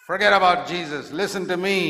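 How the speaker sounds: loud, insistent order; giant's command. Acted. Giant drawing the believer from Jesus, loud command. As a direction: override the rival voice forcefully.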